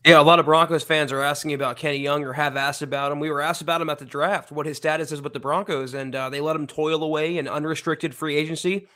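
talking around a cough drop; mouth full. Real, not acted. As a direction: lozenge in the mouth. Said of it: "Ricola in my mouth right now".

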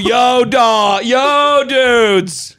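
hammed-up Boston guy yelling to his buddies; mock Boston dude hollering; Boston accent. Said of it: "Some guy from Boston".

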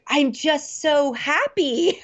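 slow, high, laughing while saying it; laughing through tears. Retold or imitated. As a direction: laugh it out, half crying. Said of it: "And I'm like".

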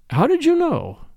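high, startled question; surprised. A narrator's reading. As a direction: caught off guard, asking quickly. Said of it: "somewhat surprised".

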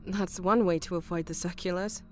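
high, quick woman's quip; joking. A narrator's reading. Kim to Phil about a blocked letterbox, joking. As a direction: toss it off as a dry joke. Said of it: "she joked".

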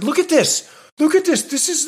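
high-pitched, indignant customer complaint; shrill-pitched Karen demanding attention, imitated; real Karen. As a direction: play up an outraged Karen. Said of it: "I was real Karen".

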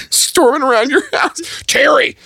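high laughing mock rant, fast; angry dad voice. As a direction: voice a furious dad, half laughing. Voicing Tim's angry dad.

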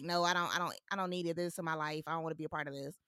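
soft, timid and hesitant; quiet shy voice. Retold or imitated. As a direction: shrink back, quietly refusing. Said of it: "quiet, shy, like".

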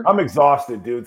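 real exhaustion after a heated rant; fired up. Real, not acted. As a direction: spent but still fired up about it. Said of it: "Sorry I'm so fired up".

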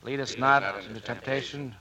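slow, reverent Lord's Prayer; the crew prays over a dead shipmate, slow and solemn. Acted. Prayer at burial service.

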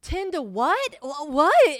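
high, loud confused "what?"; a clueless kid caught off guard; bewildered. Retold or imitated. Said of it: "And I was like".

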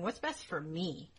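mock self-interest. Nobles looking out for themselves, mock self-interest. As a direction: weigh it up slowly, only for yourself. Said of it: "No, they're going".

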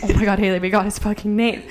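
telling her coworker they got the guy's name, excited; thrilled exclaim. Retold or imitated. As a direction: squeal it to your friend like you won. Thrilled at getting his name.

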